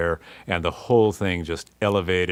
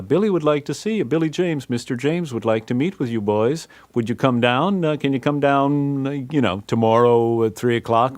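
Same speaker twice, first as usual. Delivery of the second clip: higher, quicker polite secretary; 5 semitones higher than usual. Retold or imitated. Secretary phoning the band with an invitation, higher and brisk. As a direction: chirp it like a secretary on the phone. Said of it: "Billy James' secretary says".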